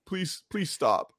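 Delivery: slow begging that rises; hammed-up pleading; mock pleading. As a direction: beg a friend to quit. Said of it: "I go".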